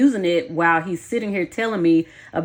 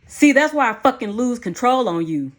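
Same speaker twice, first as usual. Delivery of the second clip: loud furious outburst, higher and louder; angry shout, pitched up; exploding in anger; 6 semitones higher, 5 dB louder than usual. Acted. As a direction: blow up at her. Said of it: "Sean exploded".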